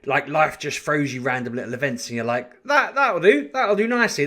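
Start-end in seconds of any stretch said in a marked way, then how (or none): 2.7-4.3 delighted, higher pitched; light, pleased lift on the news. Retold or imitated. Vlogger delighted at finding a topic, high and pleased.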